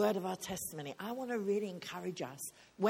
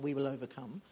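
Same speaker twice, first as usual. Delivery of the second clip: lightly quoted song line; quoting a song; 5 semitones lower than usual. Retold or imitated. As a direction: drop down to recite "We will overcome" as a song title. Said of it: "It's not just a song".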